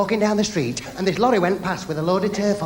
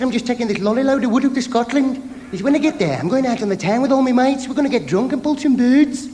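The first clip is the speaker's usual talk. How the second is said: higher, louder giddy patient voice; hammed-up loud glee, slowing at the end; excited patient; 5 semitones higher, 4 dB louder than usual. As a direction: brag cheerfully about the night out.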